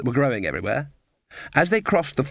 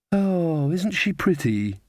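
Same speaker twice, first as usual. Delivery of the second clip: slow, higher-pitched tender sigh; admiring sigh; 5 semitones higher, much slower than usual. A narrator's reading. Magrat gazes at the sleeping girl, sighing admiringly. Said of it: "sighed Magrat".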